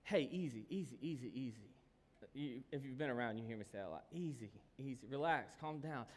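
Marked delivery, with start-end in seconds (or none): 0.0-1.7 calming. Retold or imitated. Dad settling things down at home, calming. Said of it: "this is how it goes in my house". 4.1-6.0 low, easygoing settling tone; calm. Retold or imitated. Dad at home before he has had enough, calm. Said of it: "I start pretty calm".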